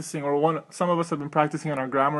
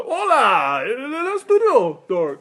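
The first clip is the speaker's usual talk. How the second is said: put-on Spanish accent; 7 semitones higher, 4 dB louder, slower than usual. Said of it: "re-record the entire thing in Spanish".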